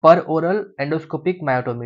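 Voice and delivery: per oral endoscopic myotomy, each word drawn out slowly; slow dictation for students; dictating slowly. Shown as a demonstration. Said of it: "एक नया आया है".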